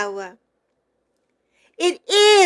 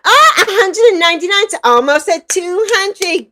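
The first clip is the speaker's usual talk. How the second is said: excited laughing; 5 semitones higher than usual. Real, not acted. Excited about follower count.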